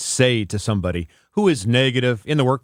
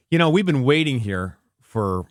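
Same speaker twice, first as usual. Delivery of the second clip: grumpy customer. Pretend. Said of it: "I'm your, uh, customer".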